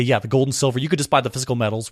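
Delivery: ordinary talk, nothing marked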